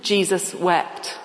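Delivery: Jesus wept said slowly, word by word; slow, deliberate Jesus wept; slow recitation. Shown as a demonstration. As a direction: recite it slowly like a memory verse. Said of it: "a memory verse".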